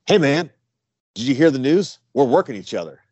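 a hint of an excited newcomer; eager young kid. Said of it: "some young kid walks up to me".

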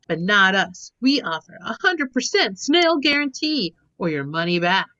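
slow, earnest ad-read voice; mock radio ad. Hosting a joke snail ad for listeners, as a parody ad read. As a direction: sell the snails like a cheesy commercial.

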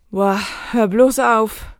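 slow, drawn-out fond exclamation; soft, affectionate exclamation. Shown as a demonstration. Teacher models a heartfelt phrase for learners, gently affectionate. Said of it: "Pero con una entonación suave, cariñosa".

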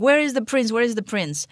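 a touch of repeated, insistent demand; clamouring press crowd. Acted.

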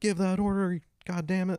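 high, loud barked command; furious shout. Retold or imitated. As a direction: yell the order in a rage. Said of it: "shouting at each other".

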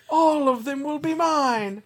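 silky polite villain. Acted. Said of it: "that's just how he talks now too".

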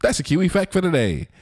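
put-on old Hollywood transatlantic accent; crisp glamorous old Hollywood star. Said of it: "transatlantic accent".

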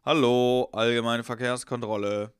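loud drawn-out hello, then slow official announcement; police officer. Retold or imitated. Policeman at the car door announcing a check, official drawl. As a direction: imitate an officer calling out a traffic check. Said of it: "hörst du nur im Hintergrund".

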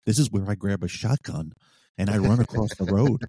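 retold amped-up cop moment; mildly pumped-up, playing out the action. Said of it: "you're getting amped up".

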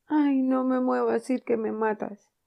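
slow, high, loud moaning plea; milk the fake pain; hammed-up agony. Tom faking dying agony to his brother, hammed-up.

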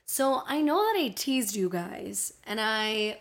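light Miami accent creeping in. Real, not acted. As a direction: speak with a slight Miami accent. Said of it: "my Miami accent's really out right now".

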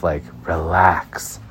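slow, soft, dismissive relax; mock calming an old friend; drawn-out, unbothered eye-roll; drawled relax. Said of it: "You're like".

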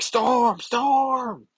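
high, loud desperate call. Acted. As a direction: shout her name as she flies off. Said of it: "He's like".

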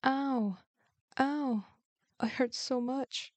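high-pitched put-on ows; mock cries of pain; feigned pain. A narrator's reading. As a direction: cry out as if your belly aches. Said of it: "hugged his stomach and shouted".

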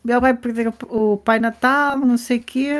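lightly acted objection; imitated child's protest. Voicing children's protest about uncle.

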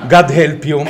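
laughing loudly through a self-mocking joke. Real, not acted. Laughing joke about his accent.

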